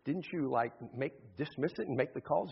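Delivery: hurried, stammering mild alarm; a little panic. Acted. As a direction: stumble through it, slightly rattled. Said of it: "getting a little panic in your voice".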